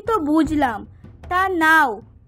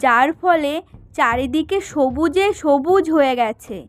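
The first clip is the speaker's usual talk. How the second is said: lower, even storyteller's voice; story narration; 3 semitones lower than usual. A narrator's reading. Narrator telling listeners what happened next, calm storytelling voice. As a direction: carry the tale forward, unhurried.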